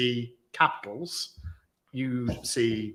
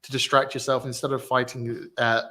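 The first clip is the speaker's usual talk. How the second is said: reading aloud. Real, not acted. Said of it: "me reading out the actual tweet".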